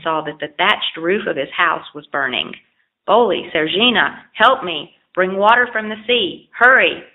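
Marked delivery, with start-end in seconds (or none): 3.1-7.0 calling for help. Acted. House on fire, calling for help.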